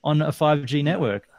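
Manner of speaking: incredulous and pushy; "come on, mate" disbelief; exasperated. Retold or imitated. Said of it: "I'm like".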